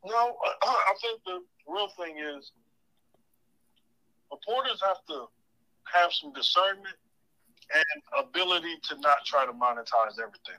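talking through a mouthful; eating while talking; mouth full. Real, not acted. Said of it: "I'm eating right now".

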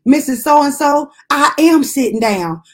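pointed reply. Retold or imitated. Wheelchair patient answers the worker back, pointed reply. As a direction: play a mildly indignant comeback.

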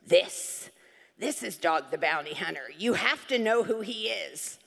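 lightly mimicking an insistent friend; emphatic, driving home each word. Friend showing her a photo up close, insistent.

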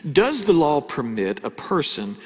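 lightly British Pharisee reading; slow, a hint of formal British; British accent. Preacher reads the Pharisees' question to Jesus, mildly British accent. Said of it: "the Pharisees sound British whenever I read it".

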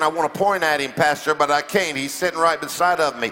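low-pitched mock aside from a churchgoer; congregant's confession. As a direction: play a member confiding in the pastor. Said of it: "Some of y'all are saying".

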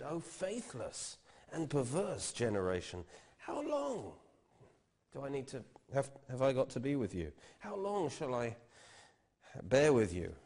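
rising, pleading cry of frustration, loud at the end; preacher acting out an exasperated Jesus, high and loud. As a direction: voice Jesus at the end of his patience. Preacher voices exasperated Jesus quote.

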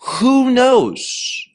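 "Who knows" breathed as a sharp whisper; emphatic whisper. Retold or imitated. Mordecai urging Esther to act, emphatic whisper. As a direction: whisper it urgently, pressing the point home. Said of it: "Mordecai is emphatically telling her".

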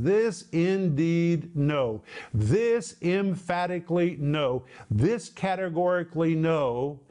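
slow, emphatic rendering with each word weighted. Shown as a demonstration. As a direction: stretch "This" and "know" slowly for emphasis. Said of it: "describes something that is emphatic".

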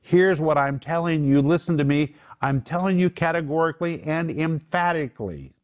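acted categorical insistence. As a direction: lift your voice as if calling people to attention. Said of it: "he lifts his voice and says".

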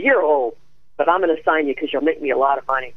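lightly voiced gravelly agent, quick and blunt; a hint of the gruff agent signing her; Eileen Ford's rough voice. Agent Eileen Ford signing Nancy, lightly voiced gravelly and brisk. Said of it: "She had this grovelly, rough voice like this".

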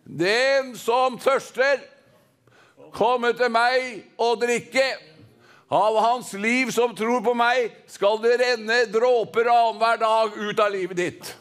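measured, proclaimed call to a crowd; crying out. Acted. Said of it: "og så ropte han ut".

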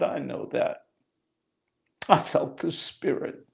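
soft, half-voiced admission; almost whisper the words to the preacher; hushed, awed reply to the man with the cross; hushed confession.

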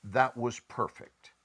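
slow, satisfied and content; slow contented sigh of completion. Shown as a demonstration. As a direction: savour it slowly, fully satisfied. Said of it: "walk away from saying".

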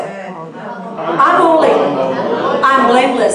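drawn-out, deliberate affirmation; slow declaration. Shown as a demonstration. Preacher leading the congregation to say it over themselves, slowly. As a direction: stretch each phrase for the room to repeat. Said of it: "I want you to say it over yourself".

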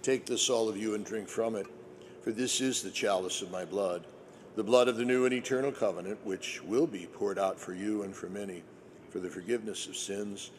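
solemn liturgical prayer voice. Acted.

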